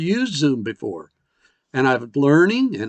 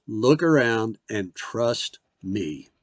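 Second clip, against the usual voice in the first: reassuring God; 4 semitones lower, 4 dB quieter, slower than usual. Retold or imitated. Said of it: "God is saying".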